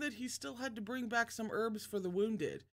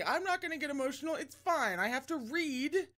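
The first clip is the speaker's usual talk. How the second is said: fighting tears; 5 semitones higher, faster than usual. Real, not acted. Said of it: "when I get emotional, my throat closes".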